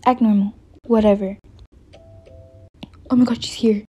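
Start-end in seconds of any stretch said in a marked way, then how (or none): 3.1-3.8 urgent whisper to herself; nervous whisper. Acted. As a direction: hush it, she's at the door. Nervous before door opens.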